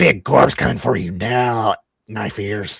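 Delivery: creature voice of a goblin. Voicing a goblin taunting a player character: goblin voice. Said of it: "one of the goblins says".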